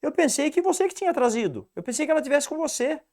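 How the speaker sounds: lightly voiced Batman; Batman's line. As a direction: toss it off high and fast as Batman. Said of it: "E o Batman fala".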